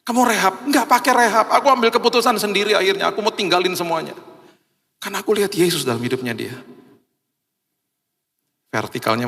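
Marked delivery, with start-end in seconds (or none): 0.1-5.8 triumphant testimony. Retold or imitated. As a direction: proclaim the freedom. Testimony peak.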